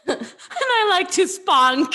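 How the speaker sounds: laughing through "And I like to spunk.", very slow; cracking up while quoting the line slowly. Retold or imitated.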